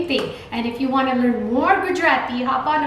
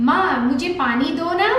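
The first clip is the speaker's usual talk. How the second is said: higher Hindi request, rising at the end; Hindi accent; 4 semitones higher, 3 dB louder, much faster than usual. Shown as a demonstration. Asking Mom for water in Hindi, lilting accent. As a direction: plead lightly in Hindi accent. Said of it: "in Hindi, they would say".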